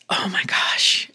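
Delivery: soft breathy whisper, slowing down. Real, not acted. Whispering to listeners about a shocking story. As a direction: hush it as if it's scandalous.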